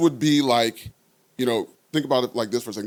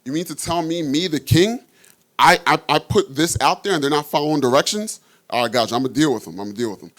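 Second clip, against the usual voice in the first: furious king; 3 semitones higher, 3 dB louder, faster than usual. Retold or imitated. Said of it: "He's like".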